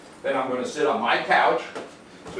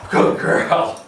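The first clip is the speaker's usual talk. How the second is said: 1 whispered praise; 3 dB louder than usual. Real, not acted. Praising dog while crouched low.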